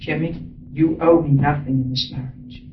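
low, hushed sincerity; tender vow. Retold or imitated. Husband renews vows to his wife, low tender sincerity. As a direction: softly release her from every debt.

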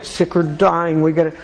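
slow, mock-somber drone; mock gloomy. Mocking an always-serious churchgoer, slow and gloomy. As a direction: parody the dour believer. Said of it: "not always all serious".

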